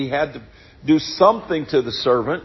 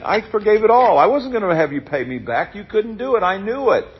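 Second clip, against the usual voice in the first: a much higher, wounded master's rebuke; indignant master; 6 semitones higher than usual. Retold or imitated. Master rebuking the servant he forgave, higher and hurt. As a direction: let him hear how much you forgave. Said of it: "It's almost like saying".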